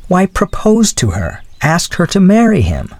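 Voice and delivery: high-pitched, mildly astonished; taken aback. A narrator's reading. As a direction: explain it as if astonished they don't know. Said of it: "with a stare".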